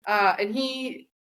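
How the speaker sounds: high, slow hammed-up monster tale; dramatic storyteller. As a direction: ham up the big beast story. Acting out the beast story.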